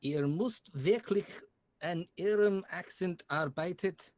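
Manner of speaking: slow, careful German; slow, deliberate German pronunciation; reading in German. Acted. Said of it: "You really need to improve your accent".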